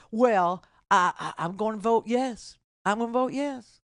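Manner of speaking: lightly put-on country voter; mock a yes voter in a country accent. Host imitating Ohioans voting yes, country voice. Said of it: "do my country voice again".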